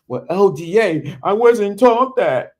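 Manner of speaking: mock a listener's excuse, slowing and rising on the second half; a touch of put-on protest; objecting listener. Voicing a listener's excuse back.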